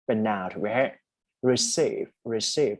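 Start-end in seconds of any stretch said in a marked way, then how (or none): 1.5-2.8 "receive" first with stress on the front, then "receive" with stress on "-ceive"; stress contrast. Shown as a demonstration. Tutor contrasts noun and verb stress, stress moving to the last syllable. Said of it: "ถ้า stress ตัวหลังก็จะเป็น verb".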